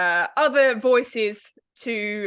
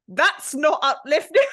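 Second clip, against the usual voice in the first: deadpan objection; 5 semitones higher, 5 dB louder than usual. Retold or imitated. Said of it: "She was like".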